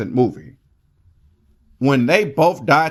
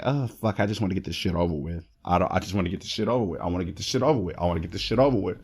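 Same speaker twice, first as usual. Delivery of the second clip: much softer, fast anxious mutter under the breath; nervous inner voice; 6 semitones lower, 6 dB quieter, much faster than usual. Retold or imitated. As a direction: rush it quietly like a panicking inner voice. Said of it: "another part of me and my neurotransmitter be like".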